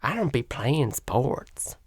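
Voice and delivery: mock Southern woman accent; Dylan Mulvaney. Host mimicking a guest's reply, Southern woman accent. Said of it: "a Southern woman accent".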